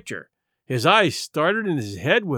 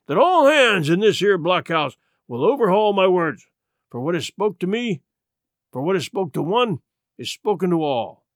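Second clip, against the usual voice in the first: raising his voice; 2 semitones higher than usual. Acted. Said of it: "raising his voice".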